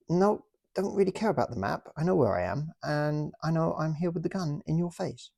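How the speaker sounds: high, jolly British officer taking a prisoner; British toy officer politely arresting the German, in a high jolly voice. Pretend. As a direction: play the smug officer with the gun, pitched high. Acted toy soldiers' standoff.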